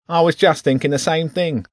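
high, squeaky rat voice. Acted. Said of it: "the rat said".

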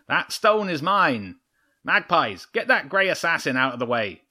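a hint of a cold fox queen giving orders; fox leader. A narrator's reading. Chimera voiced, commanding magpies.

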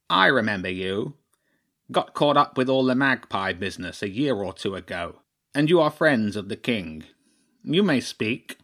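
lightly voiced crow chairman, self-important; a hint of a formal old council leader granting an audience.

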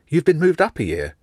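high, impressed question. A narrator's reading. Jenny reacting to Nick skipping a year, impressed. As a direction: sound amazed at the news. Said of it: "sounding impressed".

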